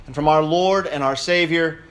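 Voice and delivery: formal blessing, slowing and falling to a hushed amen; solemn benediction voice; liturgical greeting. Acted. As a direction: pronounce the blessing over the congregation. Liturgical greeting opening sermon.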